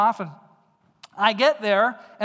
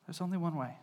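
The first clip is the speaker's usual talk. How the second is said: hushed emphatic repeat; 3 semitones lower, 11 dB quieter, faster than usual. Acted. Quiet repeat of key line.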